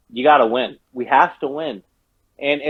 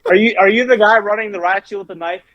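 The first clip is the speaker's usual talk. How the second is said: raging trash talk; 4 semitones higher, faster than usual. Real, not acted. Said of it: "Cactus is raging".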